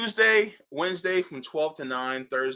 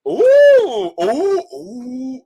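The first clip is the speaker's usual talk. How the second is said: high, loud delighted squeal; excited squeal; 11 semitones higher, 10 dB louder, much slower than usual. Real, not acted. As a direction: squeal at the discovery. Sees the brewery page.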